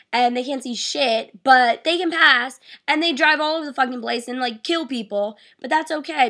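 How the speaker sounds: real frustration boiling over after failing; furious rant. Real, not acted. To her viewers, venting about failing her road test, furious. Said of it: "I am just furious".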